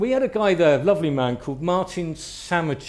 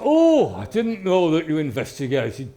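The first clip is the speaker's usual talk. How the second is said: mock surprise; 3 semitones higher, 5 dB louder than usual. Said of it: "And Martin said".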